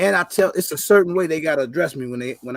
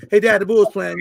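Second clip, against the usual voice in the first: mock proper greeting; 4 semitones higher, 7 dB louder than usual. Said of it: "that's how the phone call needs to start".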